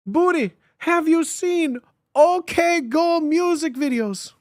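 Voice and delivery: high, slow excited question. Real, not acted. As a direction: stretch it out with excitement.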